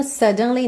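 "suddenly" with a clearly sounded D; crisp marked D. Shown as a demonstration. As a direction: mark the D in "suddenly", no flap. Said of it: "ele faz esse D marcadinho". ("suddenly" com D bem marcadinho)

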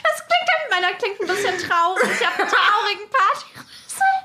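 talking through laughter; giggling while speaking; laughing. Real, not acted. Toy trumpet sounds funny.

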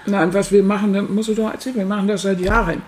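talking with a full mouth; chewing while talking. Real, not acted. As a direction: speak through a mouthful of brioche. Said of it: "und ich mit vollem Mund hier".

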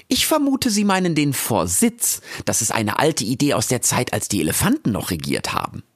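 Frau Jaki. Acted. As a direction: speak as a brisk, friendly guide. (lebhafte Frau Jaki, höher gesprochen)

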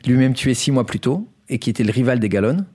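measured storyteller's news read; scripted story narration. Acted. Host tells co-hosts a Colombian crime story, scripted narration. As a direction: present it like a prepared radio chronicle.

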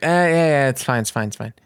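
imitating a grumpy, dismissive official; bitter brush-off. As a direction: wave away the complaint wearily. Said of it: "Why is he so ... despondent and, like, bitter".

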